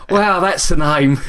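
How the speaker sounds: slow amused wow through a laugh. Retold or imitated. Coworker laughing at the silly online name, slow and amused. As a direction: chuckle it out, slowly.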